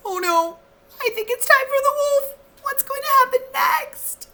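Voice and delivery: high, quick, breathless excitement; rushed, high storyteller thrill; excited gasp. A narrator's reading. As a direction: hype the kids up for the wolf. Narrator's excited aside to kids.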